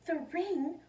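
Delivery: a storyteller gasping at the ring; gasping surprise. A narrator's reading. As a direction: breathe it out in shock. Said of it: "Then she gasped".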